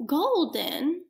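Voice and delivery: slow whisper into cupped hand. Shown as a demonstration. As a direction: hush it, drawn out slowly. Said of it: "whisper this word into your hand".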